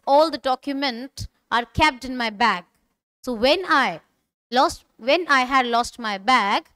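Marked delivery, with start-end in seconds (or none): 3.2-6.6 slow, careful reading for learners; slow model line. Shown as a demonstration. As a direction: read it slowly for the class. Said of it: "repeat after me". (धीमे, साफ़ उच्चारण में)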